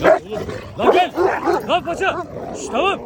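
high, sharp commands to fighting dogs; real urgent shouting. Real, not acted. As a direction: yell to break up the dogs. Yelling at dogs mid-fight. (telaşla köpeklere bağırma)

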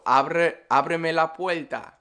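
"puerta" as "puelta" in "ábreme la puerta". Shown as a demonstration. Teacher saying it their own way, L for R. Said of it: "That's how I would say it".

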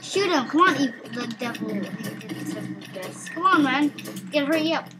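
high loud fake alarm; hammed-up scared yelling; pretend panic. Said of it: "I'm pretending right now".

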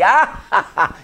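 fake laugh demo. Shown as a demonstration. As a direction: show her a fake belly laugh. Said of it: "Que si tú te ríes". (demostración de risa fingida, más aguda)

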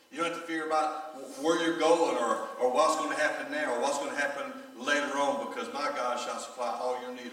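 loud, slowing preacher's build; rising preaching. Real, not acted. Pastor preaching to his church, loud and building. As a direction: drive the promise home to the congregation.

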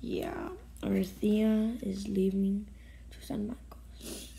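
slow tearful whisper; choked whisper. Real, not acted. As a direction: whisper it as if about to cry. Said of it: "I can't talk".

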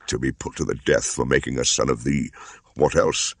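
a touch sulky, lightly voiced bound man; grudging and bitter; sullen husband. Tied husband answering Mowgli, mildly sullen. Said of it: "said the man sullenly".

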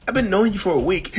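high, bewildered protest; acting flying monkey. Flying monkey objects to the girlfriend, high protest. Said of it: "you're acting and cracking me up".

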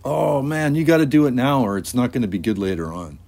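put-on high, loud urging, like an insistent kid; peer pressure. Friends press him over the blotter paper, urging.

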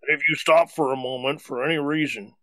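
a light ad-voice read; understated commercial announcer. Pretend. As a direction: read it like an advert pitching a product. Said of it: "It sounds like a commercial".

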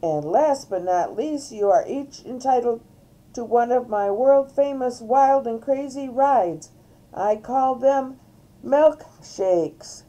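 loud, high-pitched show patter; showy cow entertainer. Acted. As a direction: hype the ride to the crowd. Reader plays Mary Moo Cow performing.

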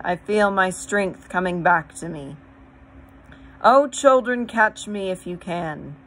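loud rising joyful voice; teasing challenge to play; playful lion. A narrator's reading. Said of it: "said the lion".

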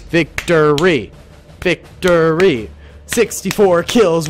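slow, drawn-out victory call; triumphant proclamation. Pretend. Player announcing his win, slow triumphant call. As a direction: proclaim it grandly, stretching the words.

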